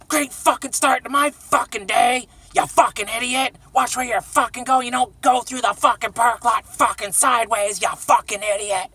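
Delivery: hammed-up enraged woman yelling; imitating raging lady. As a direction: scream at him like the furious lady in the parking lot. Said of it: "full-blown fucking rage".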